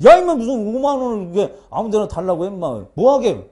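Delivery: loud retold telling-off from a mother; mock scolding. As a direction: imitate an exasperated parent scolding. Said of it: "그러면 막 야단야단을 하지". (엄마가 야단치듯 큰 소리로 흉내)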